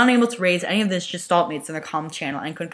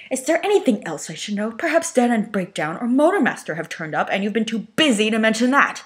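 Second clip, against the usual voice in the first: sarcastic interrogation; 5 semitones higher, 4 dB louder than usual. Acted. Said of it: "fixed the engineer with a fierce glare".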